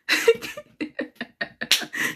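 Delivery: airy giggle; a quick high chuckle; high breathless laugh. Real, not acted. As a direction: laugh it off, embarrassed. Laughs recalling hiding it.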